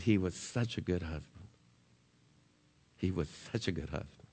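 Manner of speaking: soft, tearful repeat of the widow's words. Retold or imitated. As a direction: echo a grieving widow quietly, near tears. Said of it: "And she cried".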